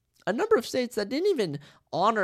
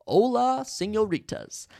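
louder, higher suave greeting, slow on señoritas; flirty Spanish greeting; 5 semitones higher, 4 dB louder than usual. Acted. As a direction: charm the ladies with a hammed-up hola.

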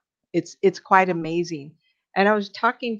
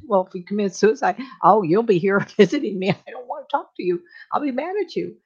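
mock scolding; 4 semitones higher, 5 dB louder than usual. Mock scolding a suicidal person.

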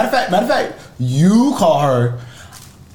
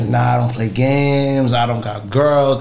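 lightly voiced player's excuse; imitating a denial; 5 semitones lower than usual. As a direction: play a liar casually denying it, pitched down. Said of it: "Be like".

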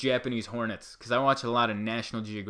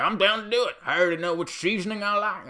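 loud, high, bad southern-accented impression; hammed-up guttural bellow; Alex Jones; 9 semitones higher, 5 dB louder, faster than usual. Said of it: "that's not even a good impression".

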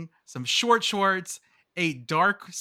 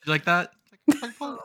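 George Lucas impression; 4 dB louder than usual. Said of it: "it's my George Lucas".

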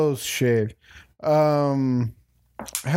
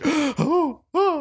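high, nervous little "oh"s; high-pitched mock fluster; retold nervousness; 12 semitones higher than usual. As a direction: act out flustered hesitation over what to say. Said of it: "getting all nervous".

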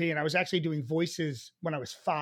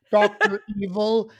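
loud villain impression; put-on movie villain voice; Doctor Evil; 6 dB louder than usual. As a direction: announce it as a campy supervillain. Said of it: "You do other things like".

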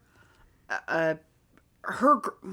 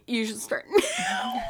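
shouted much higher. Real, not acted. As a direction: yell it high through laughter. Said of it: "repeats it shouted".

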